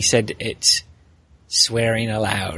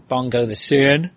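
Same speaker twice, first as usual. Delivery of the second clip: a clumsy attempt at a Northern Irish accent; bad Northern Irish accent; 3 dB louder than usual. Shown as a demonstration. Podcaster mimicking his Northern Irish cohost, badly. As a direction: mangle a Northern Irish lilt on the name. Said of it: "that was awful. I can't do that accent".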